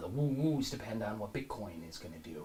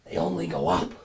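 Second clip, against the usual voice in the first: They only go up dropped low and flat; low deadpan; 3 semitones lower, 9 dB louder than usual. Acted. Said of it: "repeated line, low take".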